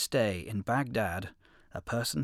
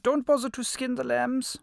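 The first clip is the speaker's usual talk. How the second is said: wolf voice; 13 semitones higher, 6 dB louder than usual. A narrator's reading. Wolf orders the lion.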